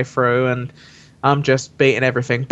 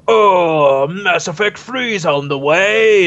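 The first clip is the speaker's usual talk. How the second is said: mock announcement voice; 3 semitones higher, much slower than usual. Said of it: "at the end where it goes".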